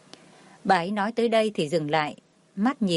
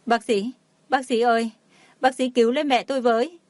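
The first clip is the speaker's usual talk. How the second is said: wailing plea; 4 semitones higher than usual. A narrator's reading. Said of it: "Huyền ôm lấy mẹ mà gào khóc".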